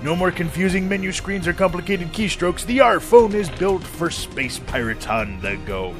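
pitchman selling a pirate phone; upbeat commercial read. Acted.

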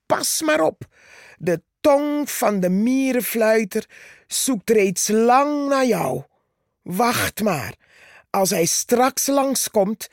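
threatening Purperhart. Acted. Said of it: "zei Purperhart".

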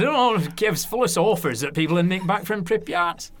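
light Lancashire, offhand explanation; a hint of broad Lancashire, casually explaining; Lancashire accent. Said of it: "So it's my Lancashire accent there".

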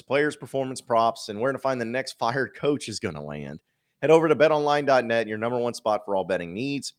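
upbeat sponsor read, punchy. Acted. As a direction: sell it like a radio spot.

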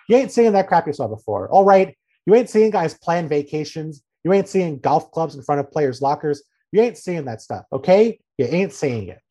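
insistent mock Southern coach accent; Joe Judge. Coach listing what you won't see, Southern accent. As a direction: drill each denial in a light Southern accent. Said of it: "he adopted this weird Southern accent".

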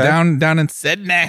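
drawn-out mock Australian accent; bad Australian accent. Co-host teasing about Australian listeners, bad Australian accent. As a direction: put on a badly faked Australian accent. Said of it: "horrible Australian accent".

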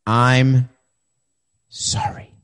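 sarcastic whispered sorry; mock whispered sorry. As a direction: whisper it like a fake apology.

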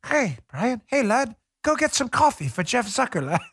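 badly faked British accent; mock British accent. Host teases Brian like a Peppa Pig kid, mock British accent. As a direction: put on a clumsy British voice. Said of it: "talking like Peppa Pig".

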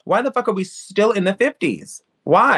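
high, slow exasperated why; exasperated outrage. Real, not acted. Ranting about racism, high exasperated why. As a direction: demand it up high, fed up.

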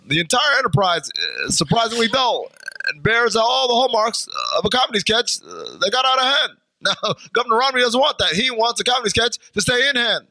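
halting, badly faked Irish brogue. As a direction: read it in a hammed-up Irish lilt. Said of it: "please say it in an Irish voice".

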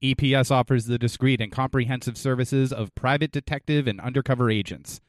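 measured, professional sponsor read. Acted. Co-host lists the detective agency's services, ad read. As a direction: list the services like a commercial.

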